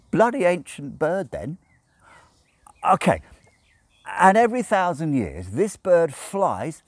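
lightly voiced drunken Crowley; character voice for Crowley. A narrator's reading. Crowley voice continues.

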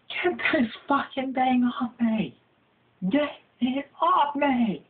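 high, frantic begging cry; panicked plea. Acted. Victim begging his bro to get it off, high and panicked. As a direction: squeal it like the bug is eating you. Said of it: "You're going".

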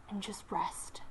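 soft unvoiced whisper. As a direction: breathe it to her gently. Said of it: "she whispered".

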